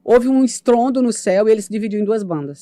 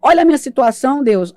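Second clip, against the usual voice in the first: desperate plea; 5 semitones higher, 4 dB louder than usual. Retold or imitated. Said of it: "Eu desesperei no choro e no riso".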